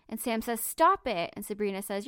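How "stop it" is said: louder, barked stop; sharp command. Retold or imitated. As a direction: cut her off hard. Sam ordering Sophie, read aloud.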